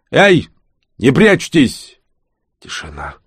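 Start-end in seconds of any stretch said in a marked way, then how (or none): 0.1-2.0 loud, high call, slowing on the last words; raised voice. Acted. Pifutsiy calls to the hidden witch, loudly raised voice. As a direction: call out to the hidden ones behind the fence. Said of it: "и повысил голос".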